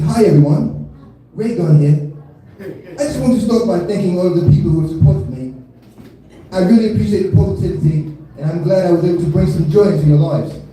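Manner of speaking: put-on rough stab at an Australian accent; amateur Australian accent impression; attempted Australian accent. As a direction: read it out in a lightly faked Australian accent. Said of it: "try my best to do her accent".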